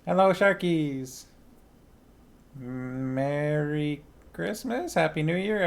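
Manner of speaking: high, slow sing-song hello; drawn-out greeting. Real, not acted. Streamer stretching out a high, slow hello to the Sharkies.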